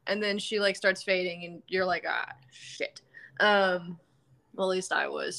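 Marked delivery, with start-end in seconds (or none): 2.1-3.0 whispered dismay. Retold or imitated. Retold reaction to her death.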